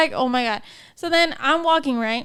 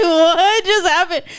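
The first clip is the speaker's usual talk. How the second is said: retold stunned disbelief; 3 semitones higher, 4 dB louder, slower than usual. Retold shock at hair pull.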